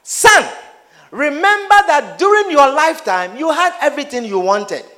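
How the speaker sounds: a hint of a firm father, high at first; Abraham answering the rich man, firm and fatherly; lightly voiced stern Abraham. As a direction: gently rebuke a son. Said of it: "Abraham said to him".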